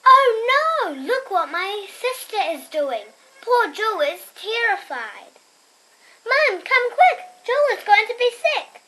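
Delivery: loud, high cry of alarm; alarmed shout. Acted. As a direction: call for Mum in a panic. Child narrator cries out in alarm.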